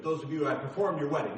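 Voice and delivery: fumbled first try. Shown as a demonstration. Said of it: "I say it wrong every time".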